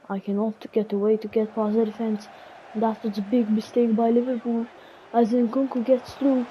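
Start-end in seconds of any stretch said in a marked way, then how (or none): 2.8-6.5 lively TV match commentary; mock football commentator calling the match; play-by-play commentary. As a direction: call the action like a broadcaster. Self-commentating a football game.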